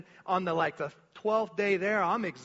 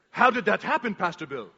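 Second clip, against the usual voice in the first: astonished, louder question; amazed translator; 4 dB louder than usual. Retold or imitated. Translator amazed at the healing, astonished. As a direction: ask it in disbelief. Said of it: "Livingston sitting right here".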